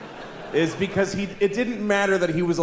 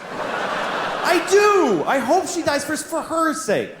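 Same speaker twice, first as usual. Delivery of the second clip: higher, laughing, half-shouted; laughing insistence; 10 semitones higher, much slower than usual. Real, not acted. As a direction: insist through laughter that you mean it. Insisting on his mean thought.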